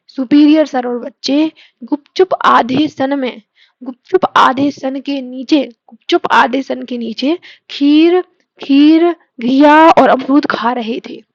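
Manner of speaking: slow, rhythmic recital of the mnemonic; slow dictation. Shown as a demonstration. Teacher recites the whole mnemonic again slowly for students. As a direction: chant it slowly so it sticks. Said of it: "फिर से बोलूंगी मैं".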